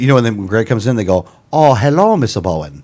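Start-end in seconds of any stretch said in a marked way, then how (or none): 1.5-2.8 mock Spanish accent. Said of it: "I forgot how to do a Spanish accent".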